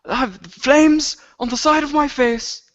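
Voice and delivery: squeaky indignant complaint; Sam voice. Acted. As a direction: rant like Sam with burning cheeks. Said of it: "the last words Sam said before he left the Throners in a rage".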